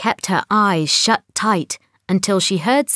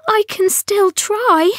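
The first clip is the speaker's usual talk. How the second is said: determined; 12 semitones higher than usual. A narrator's reading. Astrid insists despite despair.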